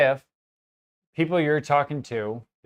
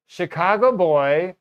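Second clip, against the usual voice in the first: higher, slow, drawn-out mock customer call; retold old woman; 4 semitones higher, 5 dB louder, slower than usual. Retelling how the customer called him, lightly imitated old woman. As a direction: imitate her drawing the words out. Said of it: "then she's like".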